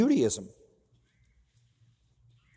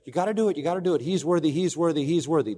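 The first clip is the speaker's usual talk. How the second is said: self-righteous; 4 semitones higher, faster than usual. Retold or imitated. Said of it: "That was the typical self-righteous approach".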